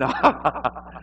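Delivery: high, put-on nervous laugh. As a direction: imitate an awkward laughing fit. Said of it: "When I'm nervous, I laugh".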